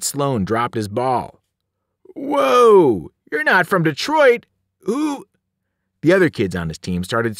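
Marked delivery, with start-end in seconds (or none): 2.1-5.3 high, loud shocked outburst; alarmed astonishment. A narrator's reading. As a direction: blurt it out, startled by giants. Boy alarmed as visitors become giants.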